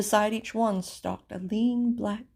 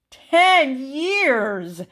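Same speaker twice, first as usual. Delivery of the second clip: high, loud cry of dismay; shocked gasp; 7 semitones higher, 8 dB louder than usual. Acted. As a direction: burst out in disbelief. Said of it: "gasped the king".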